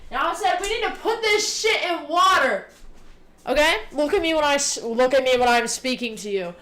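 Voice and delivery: mock-scold chat like a parent demanding attention. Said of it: "pulling the mother move".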